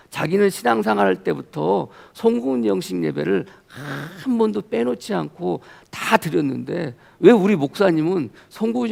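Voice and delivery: mild mock indignation, imitating an upset friend; retold angry complaint. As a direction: retell a friend's indignant grumbling. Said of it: "엄청 막 화를 내는 거예요".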